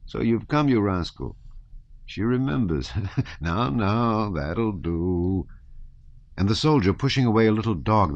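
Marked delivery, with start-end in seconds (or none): 0.1-5.5 high, playful, affectionate scolding; amused, lilting mock telling-off; kind voice. A narrator's reading. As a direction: fuss fondly over a little dog, with a chuckle. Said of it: "the same kind voice".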